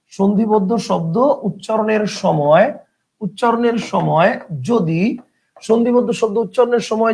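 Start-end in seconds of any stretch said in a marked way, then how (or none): 0.1-5.0 slow dictation. Shown as a demonstration. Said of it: "লিখেন".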